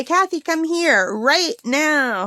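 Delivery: slow, drawn-out bossy call; mom's demand. Retold or imitated. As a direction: call her name like an impatient mother. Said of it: "That's my mom".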